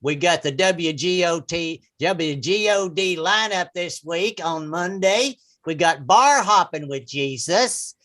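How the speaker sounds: mock preacher promo rising to a shout; radio program announcer. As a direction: announce the lineup like an evangelist. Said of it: "some interesting programs about Jesus".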